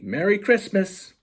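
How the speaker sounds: high, loud festive shout upward; joyful call. Acted. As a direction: sing it out to Santa. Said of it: "she calls up the chimney".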